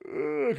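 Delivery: drawn-out yawning groan; imitated yawn. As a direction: let out a big mock yawn. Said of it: "I had a yawn cry".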